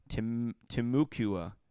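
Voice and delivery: Temecula slowly tried as tim-MOO-kyoo-uh; tentative pronunciation. Shown as a demonstration. Guessing for Orlando locals, Temecula as slow tim-MOO-kyoo-uh. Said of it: "how do you say that in Orlando".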